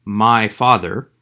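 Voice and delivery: "my father" slow, weight on "my"; slowly, "my" rises as the key word; stress on my. Shown as a demonstration. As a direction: lean on "my" to show whose father. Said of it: "it's definite because it is my father".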